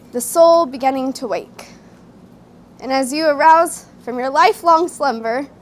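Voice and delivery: measured spoken-word delivery with deliberate pauses; slam poem recital. Acted. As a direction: perform a wedding poem to the room. Performs own wedding slam poem.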